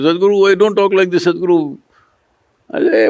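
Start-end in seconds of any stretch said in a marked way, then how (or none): 0.0-1.8 mildly pleading, pitched up protest; acted protest. People around the guru object to talk of dying, mildly protesting. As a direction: lightly imitate someone protesting in alarm.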